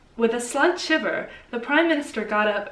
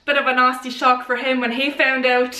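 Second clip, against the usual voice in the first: put-on Irish accent; playful Irish accent impression; Seamus.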